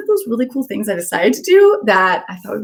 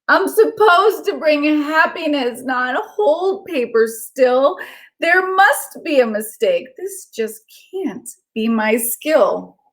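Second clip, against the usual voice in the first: disappointed stone; 5 semitones higher, much slower than usual. Acted.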